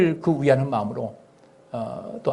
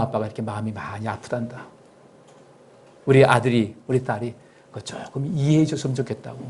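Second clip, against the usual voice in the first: put-on gentle apology to child; 3 semitones lower than usual. Shown as a demonstration. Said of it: "분명히 어떤 멘트가 있어야 돼요".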